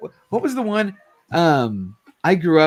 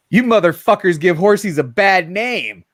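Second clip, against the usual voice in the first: put-on comic girl voice; 5 semitones higher, 4 dB louder than usual. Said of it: "It says".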